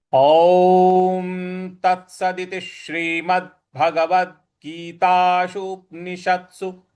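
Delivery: slow chanted Sanskrit, ओम drawn out; slow group recitation. Shown as a demonstration. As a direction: lead the class in a slow chant. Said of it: "आइए एक बार सभी लोग इसकी पुनरावृत्ति करते हैं". (सबके साथ धीमा पाठ)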